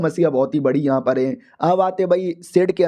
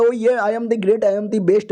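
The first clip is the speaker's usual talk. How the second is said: slow, drawn-out swaggering entrance; higher, showy self-praise, stretched out; boastful; 3 semitones higher, much slower than usual. Acted. Fat senior announces himself to the group, boastful.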